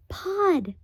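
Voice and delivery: high whispered call into the hole; boy whispering a name. Acted. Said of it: "he whispered".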